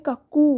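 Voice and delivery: কাকু with the final উ held long; drawn-out oo. Shown as a demonstration. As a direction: stretch the end of কাকু, "kuk-kooo". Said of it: "যেহেতু কাকুতে দুটো ও আছে".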